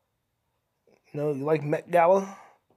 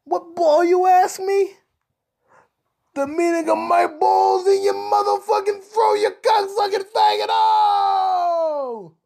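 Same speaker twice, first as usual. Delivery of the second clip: high, loud mock-furious scream; hammed-up screaming outrage; angry yelling; 12 semitones higher, 4 dB louder, slower than usual. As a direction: blow up at the caller, ending in a long held yell. Comic rant at letter writer.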